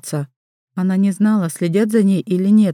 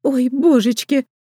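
lamenting; 5 semitones higher, slower than usual. Acted. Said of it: "запричитала женщина".

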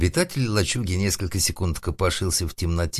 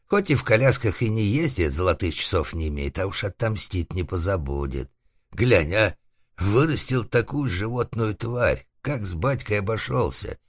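слегка сыгранный отец, обиженный на сына; ворчи с горечью и угрозой; обиженный шарманщик; 3 semitones higher than usual. Acted. Шарманщик ругает сына, грозит местью. (лёгкое обиженное ворчание шарманщика)

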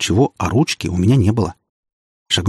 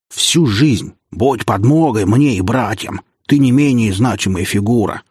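a mild mocking echo of the old prince; lightly voiced mock of a pompous father; slower than usual. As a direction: parrot the dead father's words with scorn. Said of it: "передразнил он погибшего старого князя".

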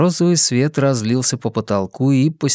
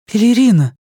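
calling out; 10 semitones higher, 5 dB louder than usual. Acted. Finding sister under cover.

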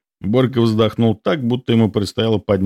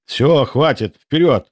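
sharp, raised command, higher by the end; barked order; 6 semitones higher, slower than usual. A narrator's reading. The captain ending a squabble, barking the order. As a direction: bark it out to cut the argument short. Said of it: "рявкнул я".

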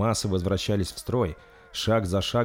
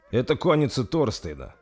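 puzzled; 5 semitones higher than usual. Acted. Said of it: "озадаченно произнёс принц".

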